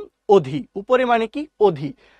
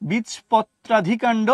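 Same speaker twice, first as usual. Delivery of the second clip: slow term; slower than usual. Shown as a demonstration. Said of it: "নামটা খুবই দুষ্টু".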